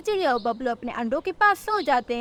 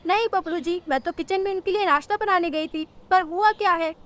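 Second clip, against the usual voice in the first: higher-pitched questioning wife; puzzled bird wife; 6 semitones higher than usual. Acted. Rano tells Bablu she was cooking, puzzled.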